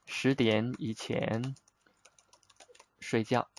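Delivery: slow, careful model phrase; slow teaching demo. Shown as a demonstration. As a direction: let each word land slowly. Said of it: "Give you example".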